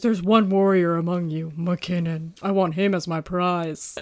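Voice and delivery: slow, drawn-out alien hunter creature voice. Recapping a movie scene where the hunter picks out a warrior, Predator impression. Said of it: "Did you like my Predator impression?".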